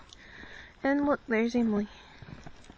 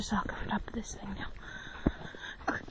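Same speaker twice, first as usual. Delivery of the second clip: whispering; 7 dB quieter, slower than usual. Real, not acted. Whispering while filming.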